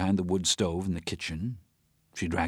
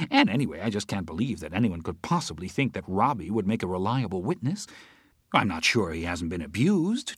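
Teresa talking, a touch of laughter; 6 semitones higher, 4 dB louder than usual. Acted. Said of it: "Teresa was laughing, saying".

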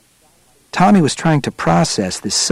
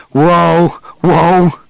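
higher, contained yell of amazement; awestruck yell; 6 semitones higher, 4 dB louder than usual. A narrator's reading. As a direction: call out in astonishment without full volume. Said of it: "yelled Deering".

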